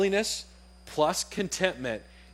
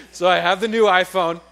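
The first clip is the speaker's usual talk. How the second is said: excited; 4 semitones higher, 9 dB louder than usual. Real, not acted. Triumphant after laughing.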